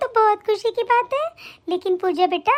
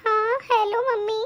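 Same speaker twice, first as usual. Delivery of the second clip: slow, teary phone greeting; tearful; slower than usual. Acted. Pregnant daughter calls her mother, slow and teary. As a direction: hold back tears as you say hello. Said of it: "तेरी आवाज़ इतनी भारी भारी क्यों आ रही है".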